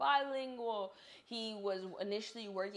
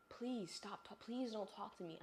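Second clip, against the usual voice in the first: sighing inner plea; 5 dB quieter than usual. Retold or imitated. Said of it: "I can't tell you that".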